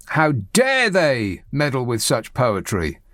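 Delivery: drawn out, mocking the pompous columnist; slow mock outrage. Host mocking a Spectator columnist, slow mock outrage. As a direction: slowly parody the indignant writer's line.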